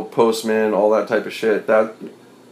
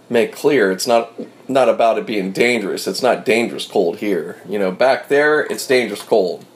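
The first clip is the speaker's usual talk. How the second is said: with hiccups. Real, not acted. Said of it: "I'm sorry about the hiccups".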